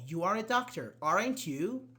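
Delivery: "doctor" falls, then "aren't you" rises; tag question tune. Shown as a demonstration. Teacher modelling a tag question for Kali. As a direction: drop on "doctor", lift on "aren't you" to check. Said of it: "Is question clarification".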